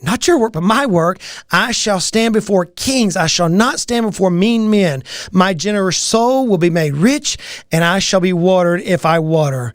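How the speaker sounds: measured affirmation reading, lightly emphatic; scripture recitation. Acted. Business coach reciting scripture mantra to viewers, measured recitation. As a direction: read your daily mantra like a prayer.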